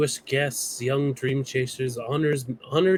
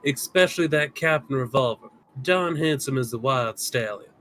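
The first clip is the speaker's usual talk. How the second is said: lightly voiced cowboy fan; easygoing Southern cowboy voice; Southern accent. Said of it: "let me get down to Southern".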